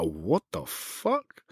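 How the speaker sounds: slow, hushed, stunned; a quiet, slowed-down what the fuck; stunned disbelief. Retold or imitated. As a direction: breathe it out in shock. Shocked at racist insult.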